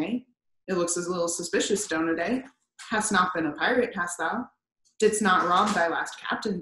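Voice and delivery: crusty captain growling with contempt; mock the merchant sailor, then grill him; gruff old whaler, half-humorous suspicion; scornful old sea captain.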